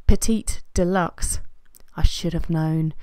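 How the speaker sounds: slow, measured mock love letter; theatrical reading. Vlogger reads her mock farewell to viewers, theatrical reading. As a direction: draw out each short phrase with pauses.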